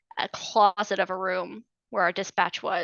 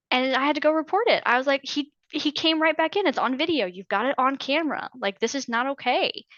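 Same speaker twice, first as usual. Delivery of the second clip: high, rushed, upset telling; pleading that it was on camera; upset and agitated; 6 semitones higher than usual. Real, not acted. Retelling reporting the intimidation to command, voice pitched up in distress.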